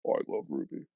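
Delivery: very high, airy cartoon squeak; silly voice. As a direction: squeak it out in a goofy falsetto. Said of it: "Can you do it in a silly voice?".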